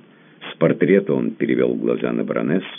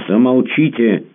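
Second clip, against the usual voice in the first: high, loud imperious shout; commanding shout; 11 semitones higher, 7 dB louder than usual. A narrator's reading. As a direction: silence him with a command. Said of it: "повелительно крикнула она".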